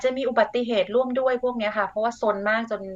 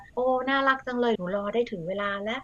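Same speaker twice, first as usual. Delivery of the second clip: put-on praising a child; 3 semitones higher, 4 dB quieter than usual. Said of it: "เป็นการชื่นชมเขาแล้ว".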